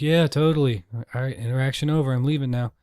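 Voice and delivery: mock polite escape from a chat; polite brush-off. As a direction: hurry the goodbye, rushing out. Own brush-off reply quoted.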